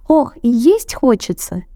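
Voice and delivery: high squeaky sigh of hunger; Круть squeaking hungrily; squeaking mouse. A narrator's reading. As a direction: squeak about being hungry. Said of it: "пищит Верть".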